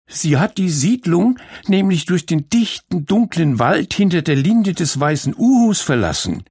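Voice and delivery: Malu warns everyone about the dark forest, ominously; ominous warning. Acted.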